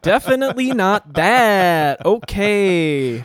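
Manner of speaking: real laugh through the words, slow. Real, not acted. Laughing off friend's pronunciation.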